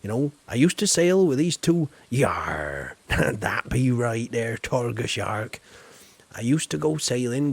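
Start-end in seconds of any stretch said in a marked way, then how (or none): 2.1-5.6 pirate voice. Acted. Pirate aside to friend.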